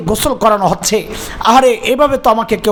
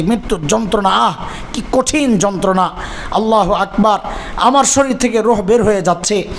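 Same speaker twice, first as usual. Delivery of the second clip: hushed voice, as if leading a meditation on death. Acted. Guides listeners to imagine their death. (নিচু, শান্ত স্বরে মৃত্যুর ধ্যান করানো)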